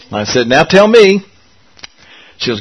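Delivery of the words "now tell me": higher, louder, mock-exasperated demand; exasperated prompt. Preacher retelling urging Lisa, mock-exasperated demand. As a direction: demand it like a patient parent losing patience.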